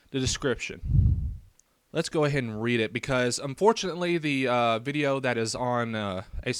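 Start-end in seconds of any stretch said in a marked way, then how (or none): 0.1-1.3 slow, hushed whisper of the heading; a drawn-out ominous whisper; dramatic whisper. Shown as a demonstration. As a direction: whisper it slowly like a spooky announcement.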